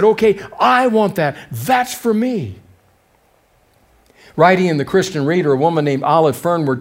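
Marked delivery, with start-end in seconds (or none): 0.0-2.6 grabbing Lot. Retold or imitated. Preacher voicing Lot seizing the valley, lightly grabby. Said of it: "He said".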